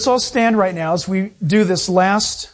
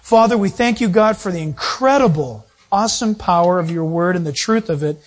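closing prayer. Acted. Preacher praying for the congregation at the close, reverent. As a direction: pray humbly to close the service.

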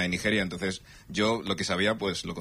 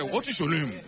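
"What is your name?" said wide-eyed, laughing; mock Nigerian accent; 5 semitones higher, slower than usual. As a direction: lay the Nigerian accent on thick. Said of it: "con los ojos y todo".

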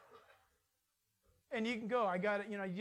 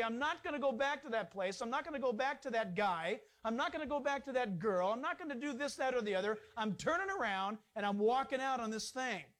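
firm resolve. Shown as a demonstration. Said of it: "Stand firm in Christ and say".

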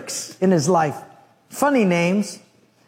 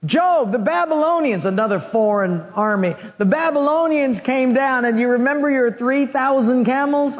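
raised, urgent report of disaster; an alarmed messenger, pitched higher; 4 semitones higher than usual. Acted. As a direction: blurt out the bad news, pitched up.

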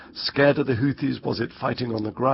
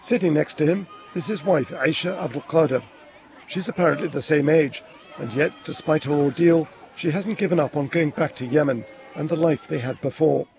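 measured, higher reporter voice; news report narration; 4 semitones higher than usual. Acted. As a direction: narrate the report in deliberate phrases.

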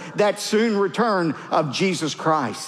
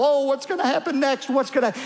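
lightly acted worrier, pitched higher; mock fearful; 7 semitones higher, faster than usual. Preacher imitating a scared believer before unbelievers, mock fearful. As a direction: fret in a higher voice, mimicking the fearful. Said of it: "depressed and scared and fearful".

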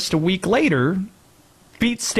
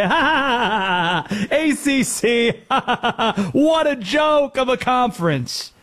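mocking laughter; 6 semitones higher than usual. Host imitating rival fans laughing at a ranked team's loss, mocking laughter. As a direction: mimic jeering fans pointing and laughing. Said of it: "point and laugh and say".

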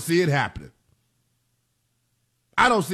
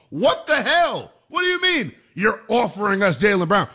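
mock stunned disbelief. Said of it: "probably thought".

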